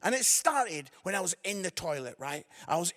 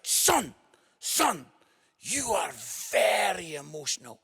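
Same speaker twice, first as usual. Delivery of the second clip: measured address to a son, pausing between calls; a hint of a stern father; lightly voiced dad; 4 semitones lower than usual. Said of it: "my dad grabs me and he's like".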